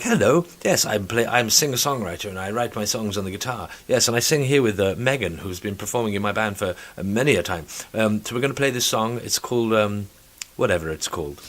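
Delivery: lightly mocked singer-songwriter introduction; a hint of a silly guest voice; put-on singer voice. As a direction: imitate a singer introducing her song, slightly affected. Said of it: "putting that stupid voice on".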